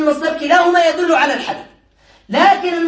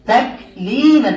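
slow demo word; much slower than usual. Shown as a demonstration. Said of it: "طيب اسم المصدر".

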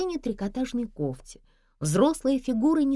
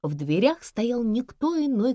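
plain reading voice

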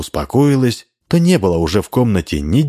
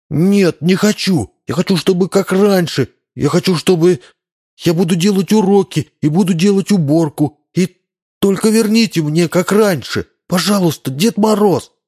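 put-on frightened boy begging Ded Moroz; desperate plea; 10 semitones higher than usual. A narrator's reading. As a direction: beg to have it back. Boy pleads tearfully.

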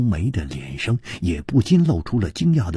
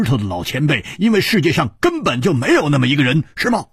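higher, quick accusing questions; lightly higher, pressing voice; Hu Tiehua deducing; 5 semitones higher, 4 dB louder than usual. Acted. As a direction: piece it together aloud. Hu Tiehua reasoning it out.

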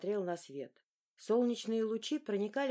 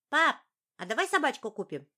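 put-on higher, louder boy voice; high excited boy; 5 semitones higher, 7 dB louder than usual. A narrator's reading. Young son telling his father how he thrashed in his sleep. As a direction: tell it like an excited small boy.

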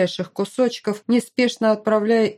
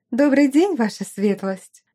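higher, chirping happy greeting; chirpy; 4 semitones higher than usual. Acted. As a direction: chirp it brightly. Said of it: "довольно прощебетала".

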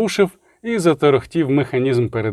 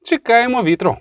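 cool and detached, higher; холодно; 9 semitones higher than usual. Acted. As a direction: keep the ice in the voice. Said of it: "холодно відповіла Рікса". (холодно і відсторонено)

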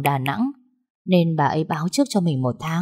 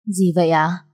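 mildly surprised query; surprised question; 3 dB louder than usual. A narrator's reading. Young woman to the guard handing her newspapers, mildly surprised. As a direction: ask with a touch of surprise. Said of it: "Cô ngạc nhiên".

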